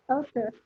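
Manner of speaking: "Auteur" repeated as "oh-tuhr"; French-style "Auteur", said on its own; correct French reading. Shown as a demonstration. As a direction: say "Auteur" with merged French vowels. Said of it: "tapi auteur".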